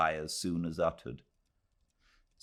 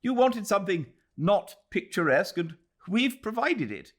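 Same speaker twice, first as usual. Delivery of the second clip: higher, put-on voice for a young English official; lightly pitched-up character voice; Ronnie's voice; 4 dB louder than usual. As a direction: voice the smug young magistrate, a touch superior. Ronnie voiced in read novel.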